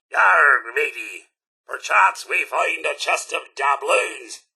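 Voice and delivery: lightly voiced pirate; a hint of a hearty pirate growing into the line. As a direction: play a pirate for a moment. Mock pirate quote among musings.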